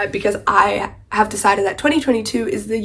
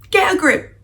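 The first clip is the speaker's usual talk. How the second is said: higher, louder, firmer repeat; repeated exasperated get a grip; 11 semitones higher, 6 dB louder than usual. Retold or imitated. Reacting to the clingy heroine again, louder and fed up. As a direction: say it again, even more fed up. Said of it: "And I'm like".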